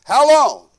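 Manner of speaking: P=A; stern God. Retold or imitated. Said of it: "God said".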